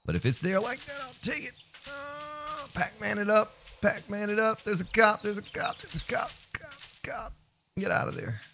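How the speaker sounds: very high, small cartoon squeak; silly squeaky voice. Player gobbling items and dodging a cop, silly squeak.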